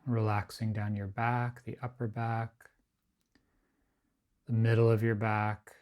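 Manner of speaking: unhurried, evenly pitched body-scan guidance, phrase by phrase; guided meditation. Acted. Teacher guiding a group to relax the body, guided meditation.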